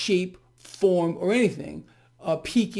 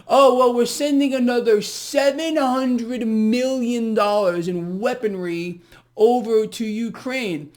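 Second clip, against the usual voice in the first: slow, louder, higher sneering quote; mocking the president; 4 semitones higher, 5 dB louder than usual. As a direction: ham up the president's announcement slowly. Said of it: "I just, just kinda did this".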